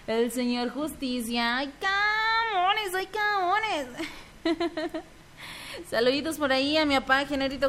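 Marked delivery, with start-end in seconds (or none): 1.6-3.9 mock crying. Mock sob reaction.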